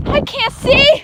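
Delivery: high breathless cry; gasping in icy wind. Real, not acted. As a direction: shout it into the wind. Running blind in snow.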